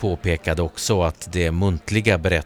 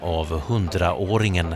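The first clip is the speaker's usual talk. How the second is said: plain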